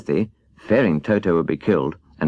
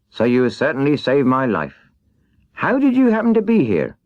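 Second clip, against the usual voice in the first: somewhat higher, glad and grateful tin man; a rusted man finally set free; relieved tin man; 5 semitones higher than usual. Acted. Tin Woodman voiced.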